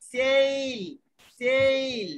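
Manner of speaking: সেইল said with a clear ei glide; teacher showing how to say sail; pronunciation demo. Shown as a demonstration. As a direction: model সেইল slowly. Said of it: "এস এ আই এল".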